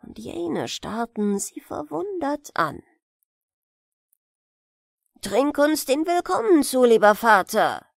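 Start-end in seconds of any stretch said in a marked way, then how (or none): 5.2-7.9 lauter Willkommensruf; gerufen. Acted. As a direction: dem Vater laut zutrinken. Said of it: "rief der Älteste". (ältester Bruder ruft dem Vater zu)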